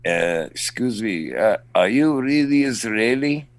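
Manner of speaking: imitated Israeli accent, tentative question; foreign accent. Stranger behind him in the TSA line, Israeli accent. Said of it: "some guy from behind in an accent".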